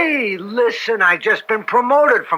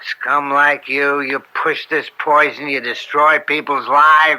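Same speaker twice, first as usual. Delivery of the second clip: cold contempt; 5 semitones lower than usual. Acted. Cop telling the dealer what he thinks of him, low contempt.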